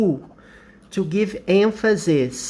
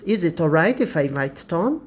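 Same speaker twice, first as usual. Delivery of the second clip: quick natural pace; faster than usual. Shown as a demonstration. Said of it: "example said at natural speed".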